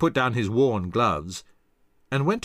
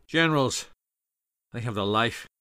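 griping. Acted. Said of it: "and griped".

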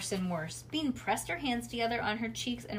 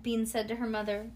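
ordinary delivery, nothing marked

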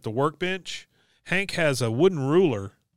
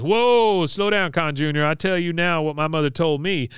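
mother's voice; 5 semitones higher than usual. Retold or imitated. Mother slowing down her daughter, higher put-on voice. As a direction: cut her off, imitating an accented mom. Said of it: "She goes".

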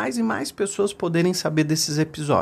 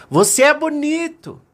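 high ringing call; acted high, carrying returned call; mountain echo; 12 semitones higher, 4 dB louder than usual. A narrator's reading. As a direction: echo the shout back from the mountain. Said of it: "a montanha devolveu".

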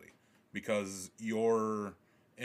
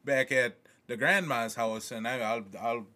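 mock Southern accent; 3 dB louder than usual. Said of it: "speaking in southern accents".

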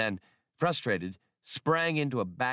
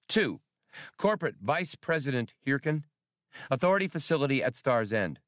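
raised, fast formal recorded message; reconstructed message; 5 semitones higher, faster than usual. Acted. Played-back message addressed to the Vice President, formal. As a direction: read it like a stiff official transmission. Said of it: "the audio reconstruction began".

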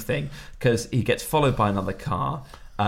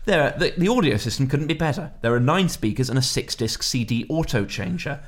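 slick used car salesman. Retold or imitated. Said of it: "Do I sound like a car salesman?".

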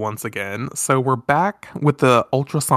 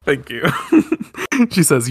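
ordinary talk, nothing marked

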